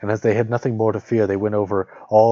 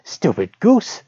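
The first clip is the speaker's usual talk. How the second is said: put-on high, taunting old witch; 10 semitones higher, 7 dB louder, much slower than usual. A narrator's reading. Witch goading Gretel toward the oven, high and taunting. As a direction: sneer it up high like a crone. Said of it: "said the old woman".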